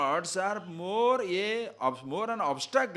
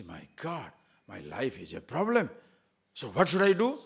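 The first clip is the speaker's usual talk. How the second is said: despairing cry; 3 semitones lower than usual. Pretend. Despairing person voiced.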